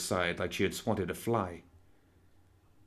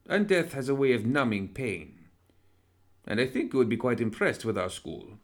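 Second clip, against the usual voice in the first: suave villain doctor; 3 semitones higher than usual. Acted. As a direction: purr it like a polite fiend. Villain doctor persuades Anna.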